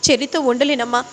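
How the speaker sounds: a retold, half-shouted plea to mother; pleading shout. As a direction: cry out that you can't stay with him. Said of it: "అని గట్టిగా అరుస్తూ చెప్తూ ఉంటుంది".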